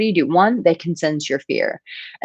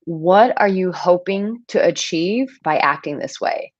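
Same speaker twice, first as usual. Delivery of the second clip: dictated for note-taking; 3 semitones higher than usual. Shown as a demonstration. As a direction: repeat it so they can write it down. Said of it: "Write that down".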